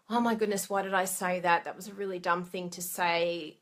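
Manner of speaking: fretting over your own words; obsessing, self-reproach. Pretend. Replaying a conversation at home, mild self-reproach. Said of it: "Do you ever obsess?".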